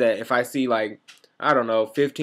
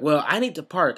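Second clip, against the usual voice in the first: imitating upset customer; 4 semitones higher, 4 dB louder than usual. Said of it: "she's like".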